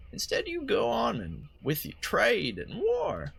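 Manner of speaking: lightly voiced old woman; a hint of a frail old lady. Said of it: "sound a little bit like an old lady George Bush".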